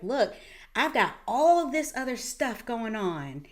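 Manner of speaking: rising frustration that bursts loud at the end; exasperated plea. Retold or imitated. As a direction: build from tired complaint to a loud outburst. Voicing a listener's overwhelmed plea.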